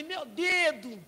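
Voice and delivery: high, long drawn-out mock howl; hammed-up hurt kid; wailing child. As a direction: stretch it into a little boy's wail of pain. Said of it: "E ele gritando".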